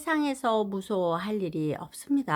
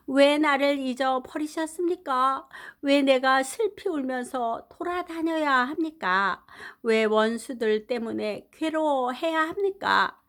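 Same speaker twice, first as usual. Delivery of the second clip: anguished plea; 4 semitones higher than usual. Acted. Psalmist cries out to God.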